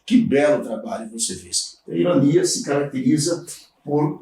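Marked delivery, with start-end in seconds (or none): 0.1-1.8 ironic. Shown as a demonstration. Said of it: "Estou usando uma ironia".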